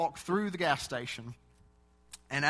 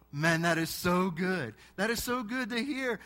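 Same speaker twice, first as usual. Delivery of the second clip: cashier voice; 4 semitones higher than usual. Retold or imitated. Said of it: "He said".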